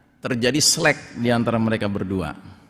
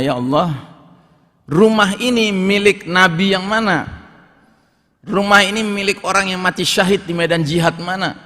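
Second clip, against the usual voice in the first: higher, louder amazed questions; awed asking; 8 semitones higher, 4 dB louder than usual. Acted. Servant in heaven marvelling at a glass palace, amazed. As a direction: gasp it out in wonder. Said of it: "Saking kagumnya dia bertanya".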